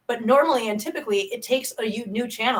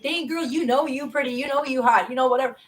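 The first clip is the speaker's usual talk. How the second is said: lightly imitated catcalling guy, higher pitch; flirting guy; 3 semitones higher than usual. Guys telling a woman she's pretty, lightly mocked flirting. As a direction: playfully mimic a guy's pick-up line. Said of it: "the guys are like".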